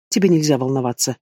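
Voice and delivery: calm her down tenderly. A narrator's reading. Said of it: "голос дракона стал ласковым".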